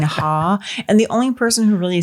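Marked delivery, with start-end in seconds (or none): 0.0-0.6 HA said with the final L dropped; accented Hall. Retold or imitated. Misheard name from subtitled film, HA without its L. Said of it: "he's got this thick accent".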